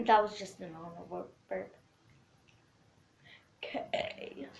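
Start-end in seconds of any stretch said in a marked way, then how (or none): 3.6-4.5 letter burped out. Shown as a demonstration. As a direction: burp the letter K. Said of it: "That was K".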